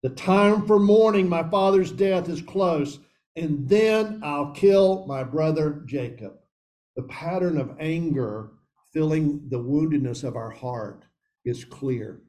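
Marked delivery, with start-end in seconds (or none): 0.0-6.3 a touch of menace, higher and slower at the end; understated brooding revenge; brooding threat. Acted. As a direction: mutter a threat under a grudge. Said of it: "He brooded".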